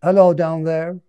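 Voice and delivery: high, loud voice of a squirrel calling down. Acted. Squirrel calling down to the bunny below, high and loud. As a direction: answer loudly from up in the branches.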